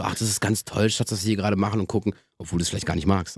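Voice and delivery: low, soft murmured thought; tender inner monologue. Acted. Boyfriend cuddling his partner through a film, softly humouring her. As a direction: think it quietly, deep in your voice. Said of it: "und denkst so".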